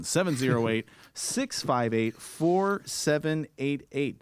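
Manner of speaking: each digit spelled out slowly; number read out slowly for listeners. Shown as a demonstration. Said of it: "The number again".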